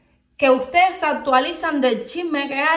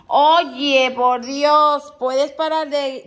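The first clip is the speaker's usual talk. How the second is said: louder, fed-up "Oye, por Dios"; exasperated scolding; 5 dB louder, much slower than usual. Real, not acted. Owner telling off her crying dog, loud and fed up. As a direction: snap at the pet to stop whining.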